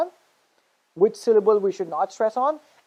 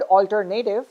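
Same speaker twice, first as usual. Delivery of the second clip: alternative said as alter-NAY-tive; wrong third-syllable stress. Shown as a demonstration. Teacher deliberately saying the word wrong, alternative as alter-NAY-tive. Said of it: "I'm saying it wrong".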